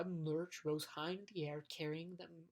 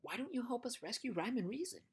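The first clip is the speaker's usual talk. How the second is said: shout; 5 semitones higher, 5 dB louder than usual. Acted. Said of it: "shouted Milo".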